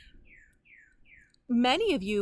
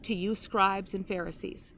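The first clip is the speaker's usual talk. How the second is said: solemn, measured Bible reading with long pauses; scripture reading. Acted. Preacher reading Jesus' woes to the congregation, solemn. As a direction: read the woes as a grave warning.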